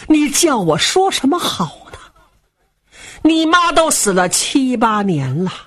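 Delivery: heavy-hearted, reminding the son of hard times; sighing old father. Acted. Old father to his son about the mother's death, sighing sadly. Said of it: "叹了一口气".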